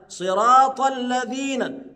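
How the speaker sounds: الذين with the tongue tip between the teeth, صراط drawn slow; tongue-tip dhal. Shown as a demonstration. Teacher showing students the dhal, slow and precise. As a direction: recite صراط الذين slowly with a clear dhal. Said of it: "الذال تخرج من طرف اللسان".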